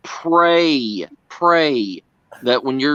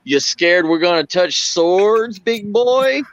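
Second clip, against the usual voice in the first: mock teasing taunt; 5 semitones higher, slower than usual. Teasing Brad in retold story.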